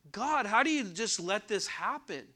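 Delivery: mildly indignant appeal to God; upset. Acted. Prophet questions God over the violence, mildly upset. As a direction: plead as if fed up, without shouting. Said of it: "That, that kind of upsets you".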